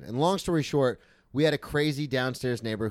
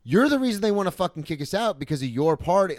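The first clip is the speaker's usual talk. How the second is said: raised, louder mock yell at the roommate; retold yell; 5 semitones higher, 4 dB louder than usual. Arguing with his roommate over the mess, a mild retold yell. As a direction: yell back at him about his party. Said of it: "I remember just yelling".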